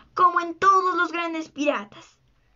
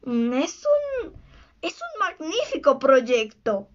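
mild shout; slower than usual. A narrator's reading. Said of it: "gritó Garfio".

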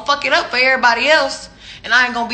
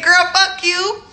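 slow, drawn-out, higher and louder clapback; sassy clapback; 7 semitones higher, 5 dB louder, slower than usual. Retold or imitated. Repeating her reply to the rude texter, slow and sassy. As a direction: savor every word of the brush-off. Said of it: "I said".

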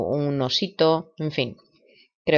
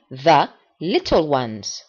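slow model repetition; much slower than usual. Shown as a demonstration. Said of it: "Voy a repetir la palabra varias veces".

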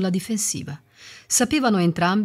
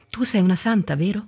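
bitter; 4 semitones higher, faster than usual. Acted.

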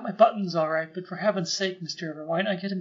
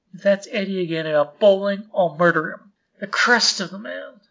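fuming at the midnight caller; angry at phone; 7 dB louder than usual. Acted. Woken husband snaps at the phone, loud and angry. Phone wakes him at night.

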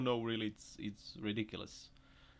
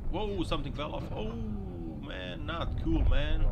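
much louder annoyed outburst; exclaiming; 6 semitones higher, 8 dB louder than usual. Real, not acted. Vlogger yelling at a driver losing cargo, loud. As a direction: call it out, fed up.

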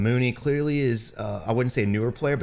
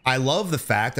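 sarcastic; slower than usual. Real, not acted. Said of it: "I'm being sarcastic".

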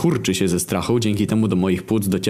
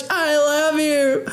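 confession; much slower than usual. Pretend. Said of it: "Chciałbym wyznać".

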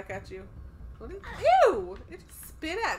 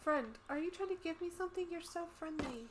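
pet talk; 5 semitones higher, 4 dB louder than usual. Real, not acted. Talking sweetly to pet ant.

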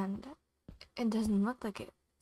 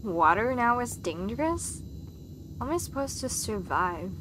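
mad. Real, not acted. Stuck player griping that the water is now dangerous, mad. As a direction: vent real annoyance at the game. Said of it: "Sorry if I sound mad".

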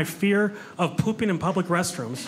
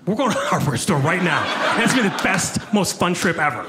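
eager reply; 3 dB louder than usual. Retold or imitated. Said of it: "I'm like".

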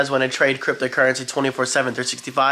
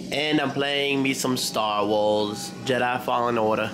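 slow, soft hint of a Southern drawl; playful Southern accent; 2 semitones lower, 5 dB quieter, slower than usual. Vlogger telling viewers what game he's playing, playful Southern accent. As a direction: lightly put on a babyish Southern accent. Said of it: "Can't tell if that was a Southern accent or me just talking like a baby".

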